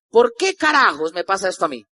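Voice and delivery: a frustrated cry of why me; angry outcry. Retold or imitated. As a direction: throw the question up in anger. Frustrated outburst at his fate.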